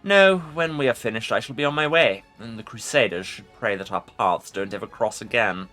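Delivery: scornful ancient lich voice; mocking undead king. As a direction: sneer it out as the lich. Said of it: "The Lich responds with mocking laughter".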